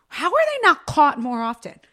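strained, about to cough; choking. Real, not acted. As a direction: voice catching mid-sentence. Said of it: "Sorry, I'm choking".

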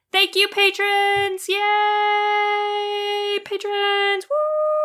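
high, slow, cheering thanks; excited cheering. Real, not acted. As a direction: cheer for the patrons.

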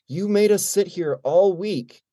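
fake-furious accusation that cracks into a laugh; mock angry rant. The guitarist jokingly scolds the new drummer, high mock-angry rant. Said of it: "looks really angry".

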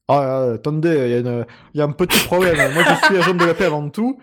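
put-on light Parisian accent, quick and amused; Parisian French accent. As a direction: play the customs officer, a touch Parisian. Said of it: "T'imagines s'il avait eu cet accent?".

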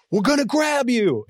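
high mock shout from a passing raft; retold scream. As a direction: call it out high like a guide across water. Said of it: "their guide screaming at me".

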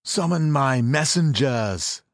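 slow, loud stricken king; shaken king. Acted. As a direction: force the order out, shaken. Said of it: "he was able to say at last".

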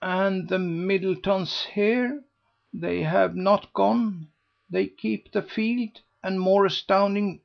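astonished gossip. A narrator's reading. Lady Busshe listing the news to Mrs Mountstuart, incredulous. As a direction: pile up the astounding news.

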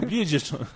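Bridgestone said with an l for the r and a slushy sh for the s, lisping. Retold or imitated. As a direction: say Bridgestone like a tongue-tied speaker, bliʒisto. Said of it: "ele tem a língua presa".

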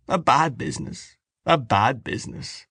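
put-on rueful old uncle voice; Uncle Charles. A narrator's reading. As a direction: shake your head over it. Uncle Charles, head shaking.

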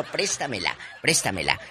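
laughing through a mock borrowing plea. Host mimics a neighbour asking for the magazine, laughing. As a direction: giggle while begging to borrow it.

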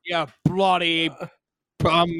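slow, fake Australian insult; Australian accent. Co-host guessing at Aussie slang, slow Australian accent. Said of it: "whatever they say".

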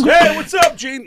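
high, loud greeting; hearty shout. Retold or imitated. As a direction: greet your buddy loudly. Friend answering the phone.

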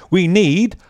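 slow, grand announcement of "global variables"; announcer voice. Pretend. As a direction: draw out "need global variables" like a big reveal. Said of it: "that sounded good, like a winner".

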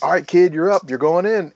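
lightly voiced senior firefighter sending the new guy in; senior man's order. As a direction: hand the kid the nozzle. Senior man sends rookie in.

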